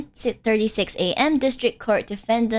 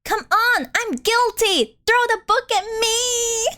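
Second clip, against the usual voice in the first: higher, slow, hammed-up despair; dramatic defendant; 10 semitones higher, slower than usual. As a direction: beg the judge to convict you, overdone. Character pleads guilty dramatically.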